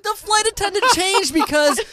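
said through a high burst of laughter; cracking up while repeating the joke; laughing. Real, not acted. To friends, repeating her own joke while laughing.

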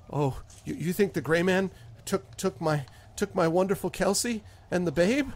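a hint of a fearful, pleading farmer; rising panic at the end; lightly voiced farmer dreading the worst; frightened farmer. Farmer answers about Gray Man.

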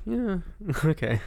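high, slow, laughing yeah okay; amused disbelief. Retold or imitated. Mocking a pundit's crazy claims, laughing disbelief. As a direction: humor him with a laugh. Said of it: "you're like".

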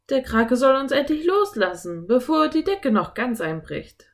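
high, urgent call. A narrator's reading. Philipp fearing the ceiling will break, calling out urgently. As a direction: cry out with rising urgency. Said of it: "rief Philipp".

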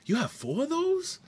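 lightly mimicked teasing voice; imitated bar owner. Bar owner teasing a heavy stout drinker, lightly mimicked. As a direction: mimic a teasing host, pitch jumping up on the question.

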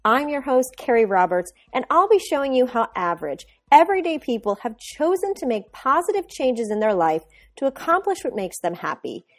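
smooth, even host intro over music; podcast intro read. Acted. Host opening the podcast for listeners, polished intro read. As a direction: read it like a polished show opener.

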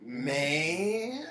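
a scared little yelp of the name; spooked squeak. Retold or imitated. Cousin losing his nerve mid-dare, voice cracking up high. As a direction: voice jumps up on "Candy" then drops.

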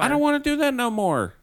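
high, loud hammed-up old man voice; mock old man. Mocking the world's oldest smoker for her friend in a high, loud voice. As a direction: play up the old smoker's cheerful complaint.

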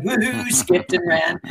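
a high, giddy woohoo; gleeful woohoo. Retold or imitated. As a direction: cheer like a kid getting away with it. Gleeful escape after the trick.

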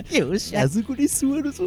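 put-on creepy old man=24.

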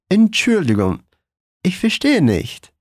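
Entschuldigung ich verstehe nicht, unhurried; slow model phrase. Shown as a demonstration. Teacher presenting the new phrase slowly. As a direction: set the phrase out carefully. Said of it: "A nossa próxima frase".

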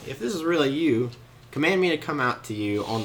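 a touch of wary doubt; cautious. Acted. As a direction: test it carefully, not quite convinced. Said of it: "he's kinda cautious".

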